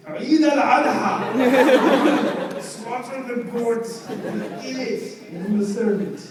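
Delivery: high laughing, slowed right down. Retold or imitated. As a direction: crack up mid-sentence. Pickup line collapses into laughter.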